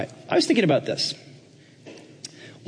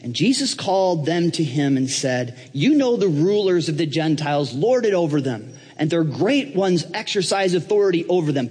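deliberate, emphatic Bible reading; measured recitation of a verse; reading scripture aloud; 2 semitones higher than usual. Acted. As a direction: read it out slowly, then lift with growing weight. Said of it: "he starts reading in verse twenty-five".

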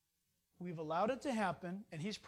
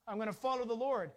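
firm resolve. Shown as a demonstration. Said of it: "Stand firm in Christ and say".

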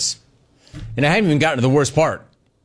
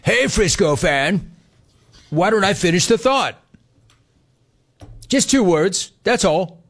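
put-on higher-pitched Frisco voice; stupid Frisco voice; 5 semitones higher than usual. Host teasing a Frisco fan, stupid Frisco voice. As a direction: talk like a silly Frisco type, pitched up. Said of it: "talking in that stupid Frisco voice".

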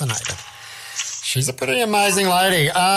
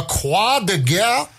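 put-on slow, careful French accent; 3 semitones higher, much slower than usual. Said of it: "that's my best French accent".

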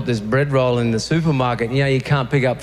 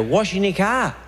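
passerby voice; 5 semitones higher than usual. Retold or imitated.

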